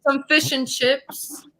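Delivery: slow put-on British; drawn-out British impression; British accent. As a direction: stretch it out in mock British. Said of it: "have a conversation in British accent".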